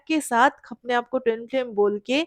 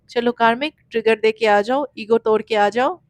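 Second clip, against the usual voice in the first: loud, commanding call to the karmic partner; booming voice of the universe giving orders; universe summoning the karmic; 5 dB louder than usual. Pretend.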